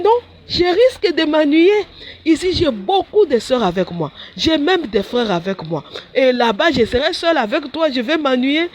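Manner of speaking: whiny complaint. Retold or imitated. Her past self complaining to Jesus.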